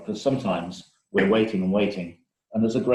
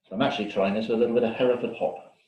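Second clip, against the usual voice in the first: crunching into the mic; crunching chips; 2 semitones higher than usual. Real, not acted. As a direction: talk while crunching food. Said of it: "Sounds like chewing on the microphone".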